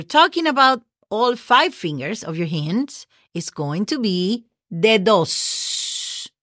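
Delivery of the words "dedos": "dedos" with a long, hissed final s; slow "dedos", lingering on the last sound; emphasized final S. Shown as a demonstration. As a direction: draw out the S ending of "dedos". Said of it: "put an S as in Sam at the end".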